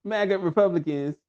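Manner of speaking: halting, word-by-word politician impression; mock statesman with very long pauses between words; Hakeem Jeffries. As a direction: deliver it haltingly, freezing after every word or two. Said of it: "Do your Hakeem, you have to, you have to say this with, in your Hakeem voice".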